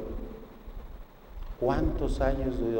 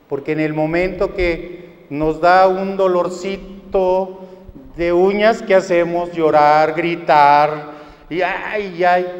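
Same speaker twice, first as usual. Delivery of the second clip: mock wailing; 3 semitones higher, 9 dB louder than usual. Preacher mocks crying over pain.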